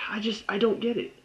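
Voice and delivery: whispered I don't get it; exasperated whisper. Real, not acted. Reviewer whispers frustration at the show's choices. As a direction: breathe it out, defeated.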